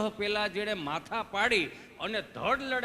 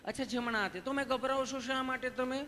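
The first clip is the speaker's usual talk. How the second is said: higher-pitched sweet nurse voice; imitated kindly nurse; loving nurse; 5 semitones higher than usual. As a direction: gently coax a nervous patient. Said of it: "તમે કેટલું પ્રેમથી પૂછો છો".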